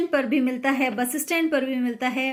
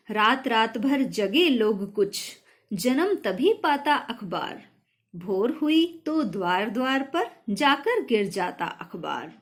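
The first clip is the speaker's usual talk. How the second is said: put-on slow, measured reciting of a children's poem; poem recitation. Shown as a demonstration. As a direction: recite the verse slowly for the class. Teacher recites next poem verse. (कविता पाठ)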